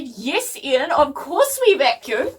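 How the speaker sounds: measured, slow mock-calm reply; pointedly calm mum. Mum answering angry Dad, drawn-out mock calm. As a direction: imitate a mum keeping her patience. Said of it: "So Mum said very calmly".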